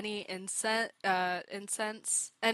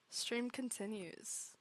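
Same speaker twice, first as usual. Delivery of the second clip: quiet, slow; 14 dB quieter than usual. Real, not acted. Repeats announcement quietly.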